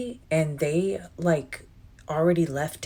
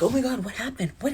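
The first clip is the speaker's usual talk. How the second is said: nosy caller; 6 semitones higher, faster than usual. Retold or imitated. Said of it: "wanted to know the tea".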